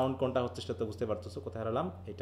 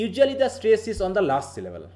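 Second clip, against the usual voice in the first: slow dictation; 6 semitones higher, 5 dB louder, much slower than usual. Shown as a demonstration. Reads rule slowly to class.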